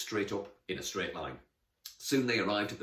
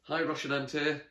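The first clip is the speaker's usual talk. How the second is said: higher, friendly hello; beaming greeting; 7 semitones higher, 3 dB louder than usual. Acted. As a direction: greet a new idol, beaming. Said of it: "beamed Emily".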